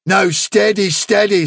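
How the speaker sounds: a touch of kindly restraint. A narrator's reading. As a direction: gently check an excited witness. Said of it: "said El Herrera kindly".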